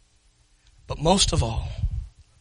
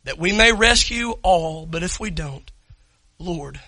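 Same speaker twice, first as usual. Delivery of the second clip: closing prayer; 4 dB louder than usual. Real, not acted. Pastor praying over the standing congregation, earnest and subdued. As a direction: pray it over the room, humbly.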